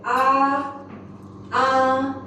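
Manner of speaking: ah held high and flat; level first tone. Shown as a demonstration. Teacher demonstrates first tone to class. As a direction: hold ah high and level for a second. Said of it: "high and actually flat, hold".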